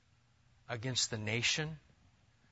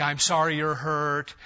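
blaming excuse; 4 dB louder than usual. Retold or imitated. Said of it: "We don't say things like".

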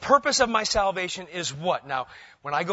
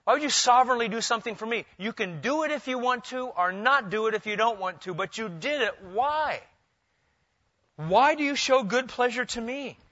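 pleading servant; 6 semitones higher than usual. Acted. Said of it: "a servant or a submissive one asking someone in authority".

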